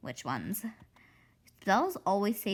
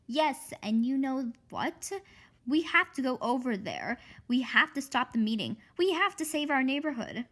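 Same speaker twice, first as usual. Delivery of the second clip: rising, louder call to action; rallying; 4 semitones higher, 3 dB louder than usual. Acted. Karen urging Hanny to stop the witch meeting. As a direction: build it up like a rally cry.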